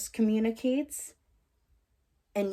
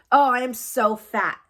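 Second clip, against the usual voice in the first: higher, louder example of putting oneself down; mock self-deprecation; 5 semitones higher, 8 dB louder than usual. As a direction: act out beating yourself up, pitched up. Mimicking self-deprecating remarks as examples.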